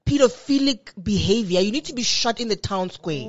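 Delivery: loud, high, mock-condemning; indignant outburst. Real, not acted. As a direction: condemn it with theatrical outrage. Outraged rant about age gap.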